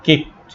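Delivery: "কিকড" said as "kikt"; final -ed as T. Shown as a demonstration. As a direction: end "কিকড" with a t, no d. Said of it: "ট উচ্চারণ করতে হবে". ("কিকড"-এর শেষে ট উচ্চারণ)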